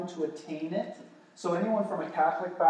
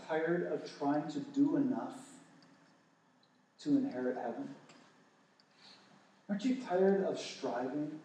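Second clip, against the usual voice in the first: gentle question; 5 dB quieter than usual. Retold or imitated. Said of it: "ask them this one question".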